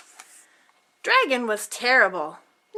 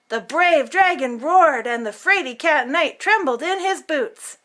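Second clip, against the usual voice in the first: booming reading voice. Acted. Boy reading heroics aloud, mild boom. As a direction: boom the roar line. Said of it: "read aloud in a booming voice".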